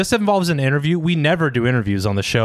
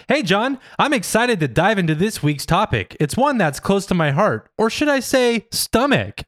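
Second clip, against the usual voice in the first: hammy podcast host; 6 semitones higher than usual. Acted. Reading AI's joke lines.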